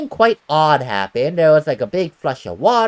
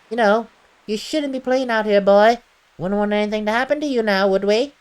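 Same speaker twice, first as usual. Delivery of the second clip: put-on a touch higher, friendly old villager; lightly voiced villager; 4 semitones higher than usual. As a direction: play the village stranger, a bit higher. Voicing villager NPC replies.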